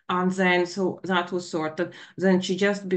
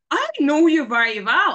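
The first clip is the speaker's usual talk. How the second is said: louder retort; 6 semitones higher, 8 dB louder than usual. Retold or imitated. Daughter's retort in argument.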